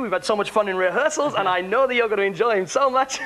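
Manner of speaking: hammed-up cabaret introduction, opening high; cabaret compère. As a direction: welcome the room like a ship's compère. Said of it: "cabaret time, so I come out".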